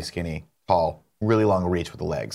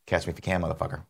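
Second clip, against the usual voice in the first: taunting robber; 5 semitones lower, 8 dB quieter, faster than usual. Retold or imitated. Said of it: "that robbers tell cops".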